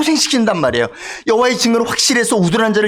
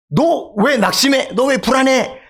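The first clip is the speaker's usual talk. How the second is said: higher-pitched, mildly acted scolding; self-rebuke; 5 semitones higher, slower than usual. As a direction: take your own soul to task, lightly. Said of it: "자신의 영혼을 꾸짖어". (자신을 가볍게 꾸짖는 말투)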